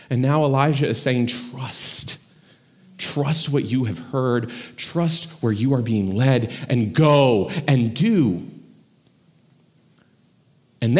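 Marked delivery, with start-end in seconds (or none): 1.3-8.5 entrust him gently with the mission; hushed charge. Acted. Elijah's charge voiced to Elisha.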